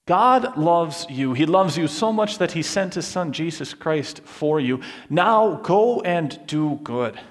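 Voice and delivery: slow, tender and sincere; sincere slow reassurance; tender gospel message. Retold or imitated. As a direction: offer it gently, like good news. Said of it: "The gospel says to people".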